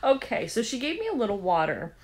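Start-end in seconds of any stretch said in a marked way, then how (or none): 0.0-0.5 breathless whispered disbelief that lifts on the last okay; hushed shocked whisper; stunned whisper. Retold or imitated. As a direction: whisper it, half laughing in shock. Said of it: "I'm like".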